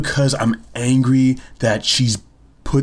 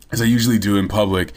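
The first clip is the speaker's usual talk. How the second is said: ordinary delivery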